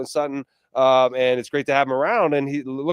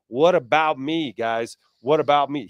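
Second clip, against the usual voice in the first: mock Chicago accent; slower than usual. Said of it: "He doesn't talk like that".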